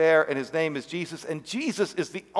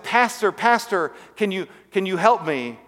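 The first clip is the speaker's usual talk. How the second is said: pitched up, slowed calling out to the pastor; calling for help; 4 semitones higher than usual. Acted. Man in the pit begs the passing pastor, raised plea. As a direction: plead upward, drawing out the name.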